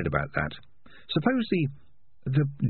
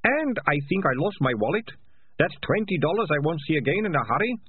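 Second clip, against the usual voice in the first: much higher, whiny complaint; lightly voiced whining rat catcher; 9 semitones higher than usual. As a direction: whine about the punch.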